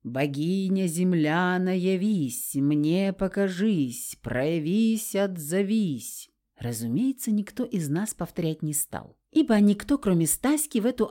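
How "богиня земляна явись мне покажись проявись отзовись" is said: slow, lightly sepulchral chant; a hint of a voice from the grave, drawn out; creepy butler. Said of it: "загробным голосом произнесла".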